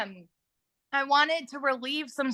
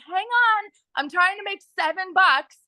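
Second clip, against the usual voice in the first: put-on higher, a bit louder, frazzled mom brushing kids off; busy mom waving off her kids, mock impatience; mock exasperated; 7 semitones higher, 3 dB louder than usual. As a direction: play yourself swamped and half-snapping back at the kids. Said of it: "And I'm like".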